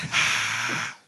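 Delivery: long breathy fake crowd noise; imitated stadium crowd. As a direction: breathe out a mock stadium cheer. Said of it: "that's what the stadium sounds like".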